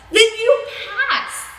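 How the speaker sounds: laughing. Acted. Laughing line.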